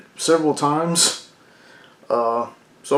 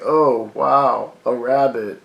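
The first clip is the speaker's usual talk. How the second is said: sarcastic dad. Retold or imitated. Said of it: "his dad's like".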